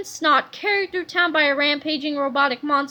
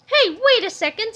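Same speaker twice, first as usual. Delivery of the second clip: higher, louder interjection; sudden realization; 6 semitones higher, 4 dB louder than usual. A narrator's reading. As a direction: catch on suddenly. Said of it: "said George".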